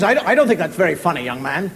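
loud, low mock scolding; acted phone victim's reprimand; stern telling-off. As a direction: play an indignant grown-up reproving a child. Adult scolds prank caller.

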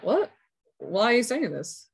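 a sudden high, startled "What?"; a mum caught off guard, pitch jumping up; surprised mum. Retold or imitated. Mum shocked by daughter's news.

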